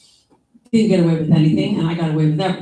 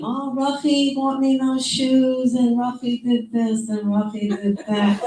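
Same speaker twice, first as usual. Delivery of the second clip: lightly voiced doting father, high and slow; imitating father; 5 semitones higher, slower than usual. Daughter imitating her proud father praising Ruffy, lightly voiced and slow. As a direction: mimic the proud old father, drawn out with a laugh. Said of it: "My father keeps saying".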